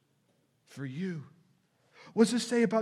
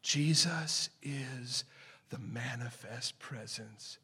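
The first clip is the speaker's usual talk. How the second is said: soft, slow, much lower near-whisper; reverent hush; 7 semitones lower, 6 dB quieter than usual. Acted. Preacher declaring Jesus is God, hushed and awed. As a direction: breathe it out in awe.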